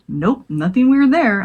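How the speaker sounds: slow, dry sarcastic mutter; a nervous teen muttering sarcasm to himself, slow and dry. Retold or imitated. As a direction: drag it out with mock unconcern. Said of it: "I muttered sarcastically".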